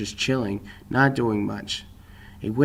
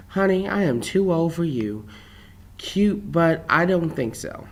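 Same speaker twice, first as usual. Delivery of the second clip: lightly voiced waitress, pitched higher; a hint of a waitress turning down a flirt, higher; waitress letting him down; 5 semitones higher than usual. A narrator's reading.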